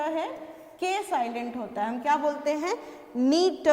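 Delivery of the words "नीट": नीट said loud and clear as a model word; model pronunciation. Shown as a demonstration. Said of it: "किनिट नहीं बोलते हैं". (साफ़ उच्चारण)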